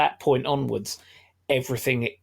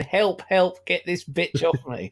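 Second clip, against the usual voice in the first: mock panic; 4 semitones higher than usual. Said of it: "you were whistling".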